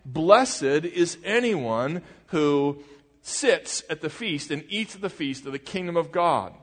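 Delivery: slow, drawn-out proclamation to the room; calling out loudly. Retold or imitated. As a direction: call it out for all the guests to hear. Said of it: "called out loudly".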